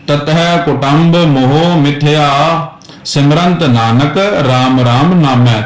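slow recitation with a clear pause after ਮਿਥਿਆ. Shown as a demonstration. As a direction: stop on ਮਿਥਿਆ, then go on. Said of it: "ਇੱਥੇ ਆ ਕੇ ਵਿਸ਼ਰਾਮ ਦੇਣਾ ਹੈ ਮਿਥਿਆ ਤੇ".

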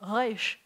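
"resh" with a throaty r; "resh" with a guttural Israeli r; Israeli back R. Shown as a demonstration. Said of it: "if you wanna sound Israeli".

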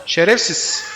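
high, loud furious shout at the thieves; outraged yell. Real, not acted. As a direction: scream at them to stop eating his meat. Tribesmen raid his base, eat meat.

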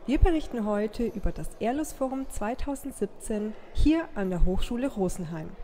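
measured TV magazine presenter delivery; scripted broadcast welcome; news presenter read. Acted. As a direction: open the report like a regional TV host. Presenter opens the TV report.

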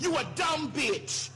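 slow, spiteful shout; mean and spiteful. Real, not acted. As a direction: spit the insult out slowly. Insulting critics, shouted.

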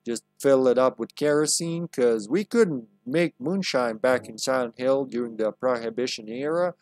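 lightly put-on American Southern accent; Southern drawl. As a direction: play it like a folksy Southern old-timer. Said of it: "why she sounds like a southerner".

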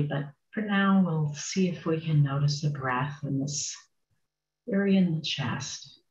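unhurried meditation guidance with long pauses; guided meditation. Acted. Meditation teacher settling a group into sitting, guided meditation. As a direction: guide them gently, phrase by phrase, leaving space.

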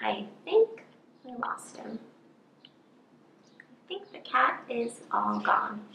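whispered, relieved mouse; soft whisper of relief; hushed whisper. Acted. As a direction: breathe it out softly, like the danger just passed. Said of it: "Fred said".

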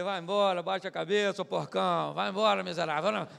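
loud rebuke, casting out the devil; shouted rebuke at the tempter; rebuking shout. Retold or imitated. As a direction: drive him away with a loud command.

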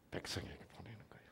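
fast, hushed whisper; preacher whispering the key point; confiding whisper. Real, not acted. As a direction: drop to a secret aside.

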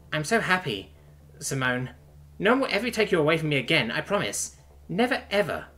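a touch of tearful relief; chirping sob. A narrator's reading. Princess reunited with her lover, sobbing happily. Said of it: "the princess chirps in a sob".

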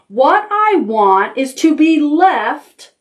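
slow, loud, every word spelled out; angry bear. Acted. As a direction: growl it slowly to drive them off. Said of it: "Bear roared".

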